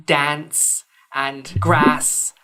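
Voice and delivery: dance and grass slow, with a flat short a like "cat"; drawn-out "dance and grass" with a flat northern a. Shown as a demonstration. Showing podcasters the northern flat a, slow demo. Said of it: "words like".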